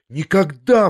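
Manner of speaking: a sharp loud "never"; exclaiming. A narrator's reading. Young man protests his loyalty to her, crying out loud. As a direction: cry it out in protest. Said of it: "вскричал я".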